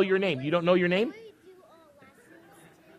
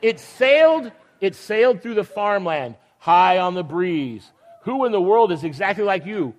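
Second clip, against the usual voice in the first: storybook reading. Acted. Reads picture book aloud.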